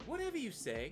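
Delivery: very soft, gentle voice. Speaker tries doing a woman's voice she says she can't be, really soft voice. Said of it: "Like just really really soft".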